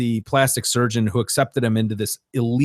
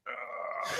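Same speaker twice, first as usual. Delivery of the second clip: stretching groan; 9 semitones higher, 20 dB quieter than usual. Acted. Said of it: "you go to stretch and you're like".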